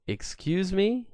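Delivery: high and slow, drawn out in shock; can't believe what he just heard; a slow, rising "excuse me"; stunned disbelief. Retold or imitated. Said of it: "And I go".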